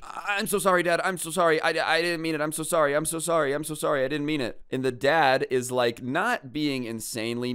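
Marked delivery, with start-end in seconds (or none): 0.0-4.6 high-pitched, pleading mock kid voice; whiny hammed-up grovelling to dad; big-baby apology. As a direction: imitate a panicked child begging forgiveness, stammering and repeating. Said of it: "the biggest baby you could have possibly ever envisioned".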